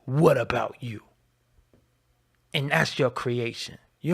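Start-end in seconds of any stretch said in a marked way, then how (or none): 0.1-1.0 mocking critics' retort in a whisper. Mimicking critics who deflect, a whispered mocking comeback. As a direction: hiss the comeback like a sneer. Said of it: "wanna be able to say".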